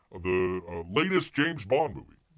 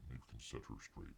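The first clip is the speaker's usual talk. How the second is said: muttered repeat; 23 dB quieter, faster than usual. Acted. Repeats line under breath.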